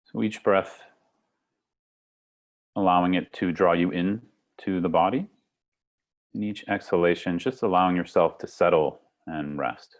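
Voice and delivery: calm meditation guide with long pauses; guided meditation. Acted. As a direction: lead them gently into the breath, unhurried. Leads a guided breathing meditation.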